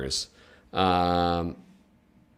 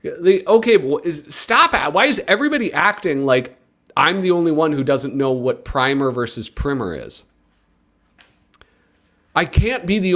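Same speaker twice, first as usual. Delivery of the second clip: flustered protest; 5 semitones higher than usual. Real, not acted.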